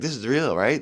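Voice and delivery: high, disbelieving check that it's real; stunned disbelief. Retold or imitated. Telling the victims' family it's real, in stunned disbelief. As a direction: ask it as if you can't believe it. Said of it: "To be like".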